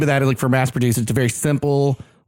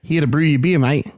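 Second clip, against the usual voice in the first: mock Australian accent. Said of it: "But that's an Australian".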